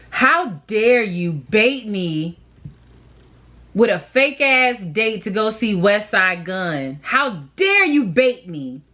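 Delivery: slow, theatrical how dare you; mock indignation. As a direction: ham up the outrage, slowly.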